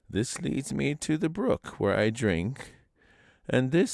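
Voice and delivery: lightly voiced old grandfather, unhurried; old man's voice. A narrator's reading. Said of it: "old man speaking to Manston".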